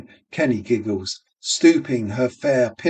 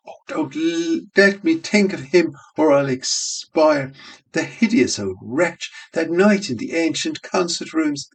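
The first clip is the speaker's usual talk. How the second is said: pleading; 5 semitones higher than usual. Acted. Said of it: "prayed again".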